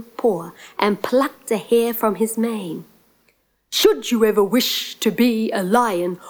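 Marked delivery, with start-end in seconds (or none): 3.7-6.2 lightly voiced, stately lion granting a gift; measured, ceremonial storybook lion; a touch of grandeur, drawing out the magic words; solemn lion. Speaks as the lion.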